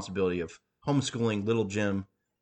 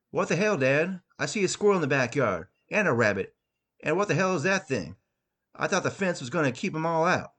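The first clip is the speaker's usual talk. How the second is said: a higher, agitated son's voice; upset teen son; 5 semitones higher than usual. Acted. Son complaining to Dad about animals, higher agitated voice. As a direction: play the boy, rattled and complaining.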